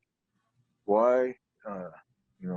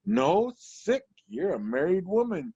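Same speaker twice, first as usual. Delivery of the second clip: blurted joke; 10 semitones higher than usual. Retold or imitated. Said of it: "I was like".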